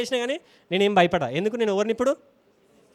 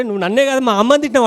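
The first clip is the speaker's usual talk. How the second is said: rising, louder outraged charge; angry accusation; 4 semitones higher, 6 dB louder, faster than usual. Retold or imitated. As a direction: hurl the accusation about his mother. Bully accusing the boy. (కోపంగా అరుపు)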